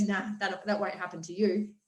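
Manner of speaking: the little voice of limiting beliefs, low and soft; doubting inner voice. Retold or imitated. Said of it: "the other little voice comes in and goes".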